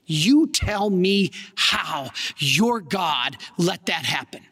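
slow, heavy, accusing demand; anguished challenge. Retold or imitated. Grieving uncle confronts the young priest, slow and accusing. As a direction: hurl the question at the priest, slowly.

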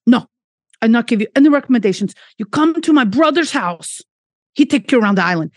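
fast, lightly put-on Portuguese accent; quick half-hearted Portuguese accent, insisting kindly; rough Portuguese accent. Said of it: "this is not gonna be a good accent".

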